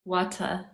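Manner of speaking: "water" said softly as "waw-tuh"; copying her accent. Shown as a demonstration. Copying her friend's accent, a quiet try. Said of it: "when I say it like you".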